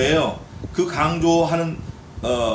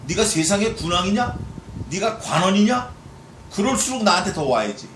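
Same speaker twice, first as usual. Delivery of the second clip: God scolding; 2 semitones higher than usual. Acted. Preacher voices God scolding.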